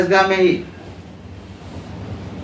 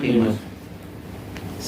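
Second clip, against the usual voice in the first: whispered echo; 7 semitones lower, 11 dB quieter, much slower than usual. Real, not acted. Teacher echoes the students' answer.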